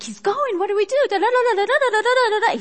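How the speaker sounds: high, rising mock chatter; disciples' busy thoughts, mock babble; mock babbling minds.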